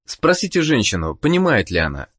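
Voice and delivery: usual speaking voice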